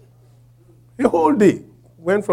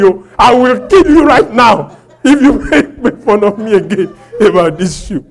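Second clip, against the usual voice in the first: louder mock bragging threat, laughing through it; boastful threat; 6 semitones higher, 7 dB louder than usual. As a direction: brag like a tough guy, half joking. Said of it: "I was forming and saying that".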